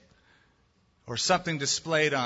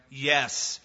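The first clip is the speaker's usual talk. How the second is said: growling Satan; 3 semitones lower than usual. Acted. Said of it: "Satan growled back to him".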